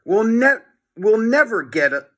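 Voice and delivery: panicked stumbling over the words; worried Harold. A narrator's reading. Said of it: "said Harold".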